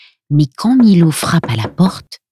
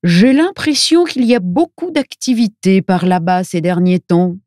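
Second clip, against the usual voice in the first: put-on voice of a chatty local fellow; higher, altered voice with a musing lilt; old fellow character; 3 semitones higher than usual. A narrator's reading. Old fellow tells the travellers of activity there, character voice.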